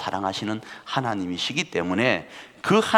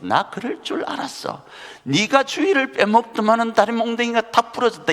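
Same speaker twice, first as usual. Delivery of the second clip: smug told-you-so; 13 semitones higher, 3 dB louder than usual. Retold or imitated. Mocking a sick churchgoer.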